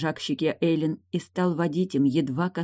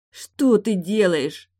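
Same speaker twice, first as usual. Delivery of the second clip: pleading; 5 semitones higher, 4 dB louder, much slower than usual. Acted. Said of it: "взмолилась Лой".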